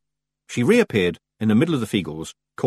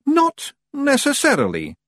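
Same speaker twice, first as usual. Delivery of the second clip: very high, slow Scots voice; high, careful Feagle answer; guarded Feagle leader; 3 dB louder, slower than usual. A narrator's reading. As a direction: draw it out warily as a wee Scotsman. Rob guardedly answers kilt question.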